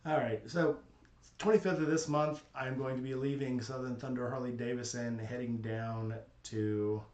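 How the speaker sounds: reverb like an empty room; big hall echo. Real, not acted. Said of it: "sound like I'm in an empty room, so you got some reverb".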